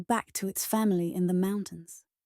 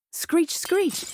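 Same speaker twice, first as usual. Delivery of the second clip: high-pitched screeching parrot; 9 semitones higher, 3 dB louder than usual. A narrator's reading. The parrot answers Winnie's hello, screeching. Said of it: "said the parrot".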